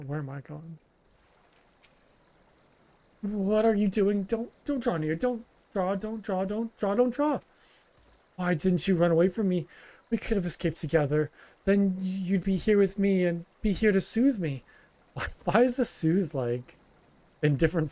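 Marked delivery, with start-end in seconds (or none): 3.2-14.6 higher, panicky, pleading "don't draw near"; a traumatized survivor backing away in fear; terrified refugee. Acted. Refugee begging the adventurer not to come closer, terrified.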